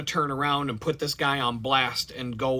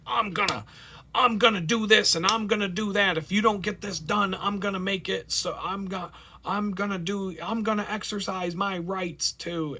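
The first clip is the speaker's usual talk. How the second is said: belligerent tenant; 7 semitones higher than usual. Pretend. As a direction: ham up a belligerent tenant making threats. Mock belligerent tenant threats.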